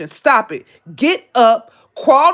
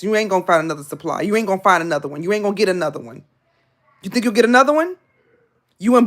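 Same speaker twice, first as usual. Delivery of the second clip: preaching; 3 semitones lower, faster than usual. Real, not acted. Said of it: "I feel like an evangelist".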